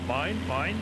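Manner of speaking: lightly squawked seagull "mine, mine"; a mild mock seagull grabbing at food; seagull impression. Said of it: "seagulls in Funny Nemo".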